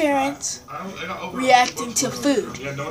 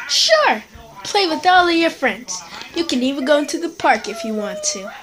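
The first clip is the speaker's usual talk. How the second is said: much higher, breezy permissive mom; eager yes-saying mother, faster at the end; cheery white mom; 4 semitones higher than usual. Acted. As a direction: chirp it out like a carefree sitcom mother. White mother voiced in skit.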